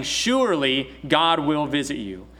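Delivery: "Surely" leaned on and stretched; slow down and land firmly on "Surely"; emphatic, sure statement. Retold or imitated. Preacher voicing Joseph's promise to his brothers, emphatic. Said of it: "it's a very emphatic thing".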